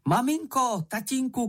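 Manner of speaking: high, eager calling out; excited call. A narrator's reading. Moomin runs home calling his parents, excited shout. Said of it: "křičel Mumínek".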